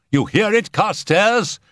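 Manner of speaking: very high, urgent question; alarmed cry. A narrator's reading. Settle bursting out at the noise, high alarmed cry. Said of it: "he cried".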